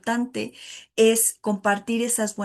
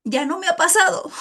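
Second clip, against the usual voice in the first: laughing; 6 semitones higher, 4 dB louder than usual. Real, not acted. Laughs while admitting it.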